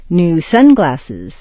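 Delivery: "sun" peaks, "glasses" drops; compound stress kept. Shown as a demonstration. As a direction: stress "sun" in "New sunglasses", slowly. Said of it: "the stressed point stays the same".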